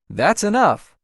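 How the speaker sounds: sharp command. Acted. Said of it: "The voice was sharp, commanding".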